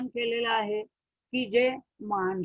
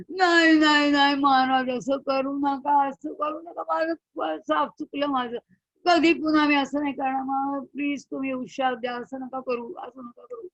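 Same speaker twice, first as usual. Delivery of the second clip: pleading; 3 semitones higher, 3 dB louder than usual. Acted. Indra begs sage not to curse.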